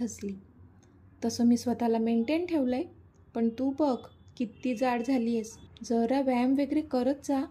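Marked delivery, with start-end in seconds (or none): 1.2-7.4 teasing with a laugh. Acted. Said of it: "तिला चिडवून हसून बोलली".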